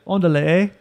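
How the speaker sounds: lightly voiced Cheech and Chong Chicano accent ending in a Canadian eh; a hammed-up East LA line that slips Canadian; retold East LA try-out accent; mock East LA accent. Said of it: "East L A, like, accent".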